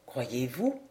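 à mi-voix, plus bas et plus doux; Croyez-vous dit bas, en confidence; à demi-voix. Acted. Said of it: "continua-t-il à demi-voix". (Patrice glisse à Hélène, à demi-voix)

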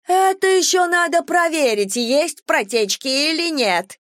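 very high, slowing screech; high piercing squeal; shrill screech. A narrator's reading. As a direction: screech it like an outraged neighbour. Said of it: "верещала Валерия Львовна".

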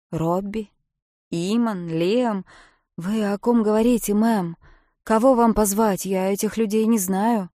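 baffled boatman, raising his voice; puzzled rescuer Jim. Acted. (Джим, громко и растерянно)

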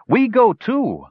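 high, eager little dwarf voices; gully dwarves eagerly joining the charge. A narrator's reading. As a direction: chirp it out, keen to join the fight.

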